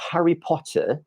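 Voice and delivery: "Harry Potter" British, no final r, /pʰɑtə/; British accent. Shown as a demonstration. Teacher demoing Harry Potter the British way, British accent. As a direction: drop the r in "Potter", British style. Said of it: "they would say".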